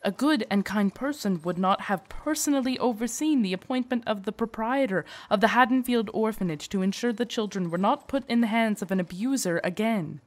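earnest protest, stressing key words; lively, emphatic pitch swings; insistent praise. Acted. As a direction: argue her goodness with rising fervour. Guard insisting on lady's goodness.

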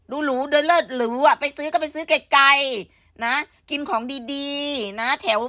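slow, drawn-out sneer at snobbery; mocking a snob, slowly; mock posh. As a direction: drag it out like a show-off.

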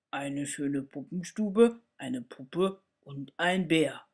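Father Christmas placing his order; lightly voiced deep Santa; gruff Santa. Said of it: "die brummt".

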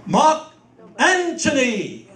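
big, slow, pause before the name; stately, drawn-out "Anthony" with a T; grand Shakespearean declaiming. Acted. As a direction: declaim it from the diaphragm. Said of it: "breath control".

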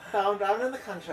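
quick mock Quebec accent; lightly hammed-up Canadian accent; put-on Quebec accent. Telling of a drive in the country, mock Quebec accent. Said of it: "it's Quebec accent".

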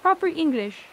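light put-on British accent. Shown as a demonstration. Streamer tells chat it's an authentic accent, lightly British. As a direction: lean into proper British English. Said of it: "authentic British accent".

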